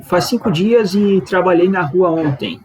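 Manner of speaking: slow, measured reading of the translation; slow, careful translation read. Shown as a demonstration. Teacher reading the Portuguese translation to learners, slowly. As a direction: spell the sentence out slowly for students. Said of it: "Ok, então".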